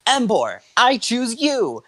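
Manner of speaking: very high, drawn-out battle call; excited trainer's cry; yelled summons. A narrator's reading. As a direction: call out your fighter, holding the last word. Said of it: "Ash yelled".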